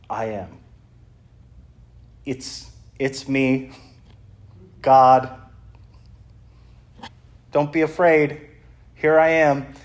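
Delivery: slow, weighty proclamation with a big build on "God"; solemn divine declaration. Retold or imitated. Jesus on the water telling frightened disciples who he is, solemn and weighty. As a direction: announce yourself as God, deliberate and grand.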